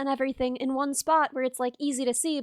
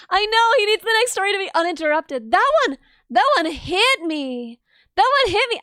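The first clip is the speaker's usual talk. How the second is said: mock hurt; 3 semitones higher, 4 dB louder than usual. Pretend wounded.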